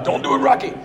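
unvoiced, whispery plea; pleading movie aside. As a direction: plead it under your breath. Voices bystander pleading in movie scene.

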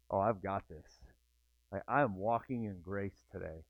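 hushed, content inner voice; quiet contentment. Retold or imitated. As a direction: say it like a calm morning self-assurance. Imagined good morning with Lord.

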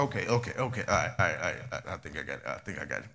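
fading to a mock hush. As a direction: voice sinking away as he pretends to finally get it. Acting out a slow learner catching on.

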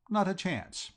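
high, breathy, whispered "Not a chance"; a hint of a sly whisper; scoffing aside. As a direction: toss it off in a smug whisper. Bertie scoffing at Jeeves.

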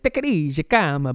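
lightly acted call to settle down; imitating Simeone Inzaghi. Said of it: "and he's like".

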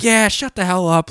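lightly imitated high-pitched jeer; mock drunken heckle. Drunk guys telling Zach off, mock heckle. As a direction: brush him off like a drunk pal.

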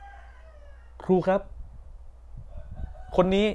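high shout to the teacher, very drawn out; classmate calling out. Retold or imitated. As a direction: call out to tell on him. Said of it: "ตะโกนขึ้นมาว่า".

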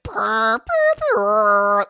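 imitating a modem purring; dial-up modem noise. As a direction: mimic old dial-up sounds. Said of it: "That's my dial-up at home".

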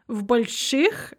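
"больших" with the и said as hard ы; hard I after sh. Shown as a demonstration. Showing learners sh is always hard, "больших" with hard I. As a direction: say "больших" with a hard sh and back ы vowel. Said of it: "pronounced more like an I".

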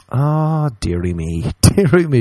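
high, laughing dearie me; laughing disbelief. Real, not acted. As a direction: laugh through your disbelief. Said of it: "exasperated reply to bro".

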